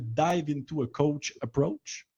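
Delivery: reads the English title in a French-Canadian English accent; slightly self-conscious English-accented title. Shown as a demonstration. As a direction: say the English name with his own accented English. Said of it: "avec mon accent anglais".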